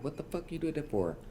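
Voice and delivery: high-pitched mock scream, held back in volume; retold screaming. Boyfriend screaming while holding her, imitated scream. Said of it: "and he's screaming".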